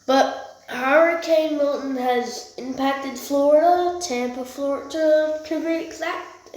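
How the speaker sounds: echoey voice in a tiled bathroom. Real, not acted. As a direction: talk with the room echoing around you. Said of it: "sound's echoing 'cause I'm in the bathroom".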